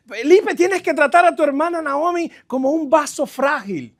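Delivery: lightly voiced mother giving a lesson; a touch of a mother's instructing tone; imitating mom. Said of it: "mi mamá siempre decía".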